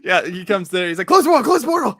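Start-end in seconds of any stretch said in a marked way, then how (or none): 1.1-2.0 very high, loud repeated cry; hammed-up frantic yelling; panicked shouting. Acting out the character rushing in at the portal, panicked shouting.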